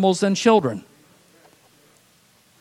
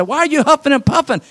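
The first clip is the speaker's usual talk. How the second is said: puzzled parents; 9 semitones higher, 3 dB louder, faster than usual. Retold or imitated. Parents question the boy.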